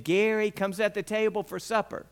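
a second, firmer call to supper. Retold or imitated. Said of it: "called a little bit more loudly".

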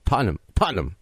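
Tottenham tried twice as "TAH-num"; practising the pronunciation. Shown as a demonstration. American host trying for his guest, Tottenham squashed to "TAH-num". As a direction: repeat Tottenham in two syllables, trying it out. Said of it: "I'll, I'll, I'll try".

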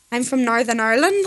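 a rough go at Northern Irish; Northern Irish accent. Shown as a demonstration. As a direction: try a Northern Irish accent, rising at the end. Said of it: "Then Northern Ireland's like".

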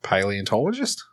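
questioning Australian "Paleontologist"; Australian accent. Shown as a demonstration. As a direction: offer the word in Australian, rising. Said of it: "That's a fun word to say in Australia".

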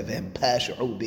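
"pashi'u" run together as PASH-u, Syrian style; Syrian-accented Hebrew, "pashi'u" squeezed shorter. Retold or imitated. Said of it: "to be real Syrian in that".

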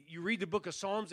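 ordinary talk

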